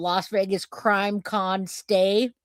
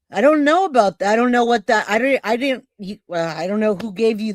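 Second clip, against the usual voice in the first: flustered denial; 4 dB louder, faster than usual. Real, not acted. Host denies knowing about a viewer's gift box, flustered. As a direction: blurt out that you know nothing about it.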